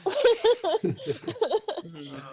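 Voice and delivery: sobbed plea to a lost friend; crying, desperate entreaty; tearful pleading. Acted. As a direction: beg through tears. Acted sobbing plea to dead friend.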